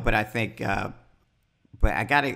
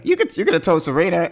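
high, loud mock indignation; retold mad protest; 8 semitones higher, 5 dB louder than usual. Dan gets mad at the excuse, imitated indignant protest. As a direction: protest in acted-out annoyance. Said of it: "when he was getting all mad".

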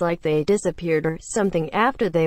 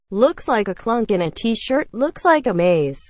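plain reading voice

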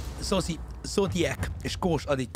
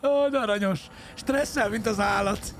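amused cooing; 5 semitones higher, slower than usual. Real, not acted. Cooing at nervous game character.

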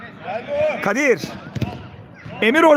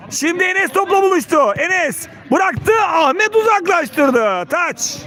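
excited commentator; 5 semitones higher than usual. Real, not acted. Enes breaks forward.

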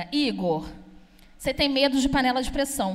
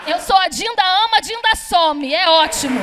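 proud boast; 3 semitones higher, 6 dB louder than usual. Acted. Boasting about being the absent godmother.

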